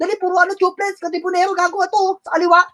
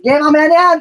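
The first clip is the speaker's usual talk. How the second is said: loud callout; 7 dB louder than usual. Real, not acted. Shotcaller yelling at teammates mid-match.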